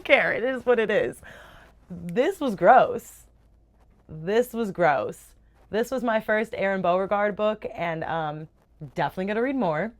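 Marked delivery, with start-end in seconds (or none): 1.9-5.3 slow, drawn-out disgust; lingering grossed-out drawl. Real, not acted. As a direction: savour how gross it was.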